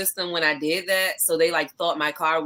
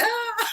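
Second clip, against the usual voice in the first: high mock scream; retold waking scream. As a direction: yelp it like jolting awake.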